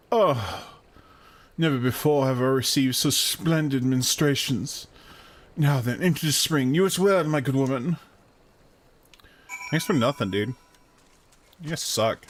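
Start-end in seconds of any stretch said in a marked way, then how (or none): 0.1-8.0 pompous character voice. Acted. Character thanks, enters spring.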